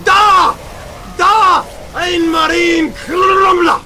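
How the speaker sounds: loud, high, drawn-out fake German; mock German commentator. Commentator calling the marines in battle, high mock-German shouting. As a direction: yell out hammed-up German exclamations. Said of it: "I haven't spoken German".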